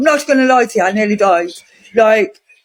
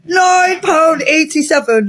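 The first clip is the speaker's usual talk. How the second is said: outraged repeat; 2 semitones higher, slower than usual. Real, not acted. Telling viewers what the shop cost, slow disbelieving shout. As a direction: shout the price back like you can't believe it.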